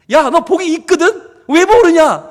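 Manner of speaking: put-on God pushing his children to see their blessing; exasperated. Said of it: "답답하신 거예요".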